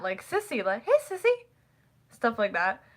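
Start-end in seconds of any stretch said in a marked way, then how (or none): 0.8-1.3 high-pitched affectionate hello; lilting, much higher greeting; friendly nickname greeting. Retold or imitated. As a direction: call her sweetly by a pet name. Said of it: "they would call each other Sissy".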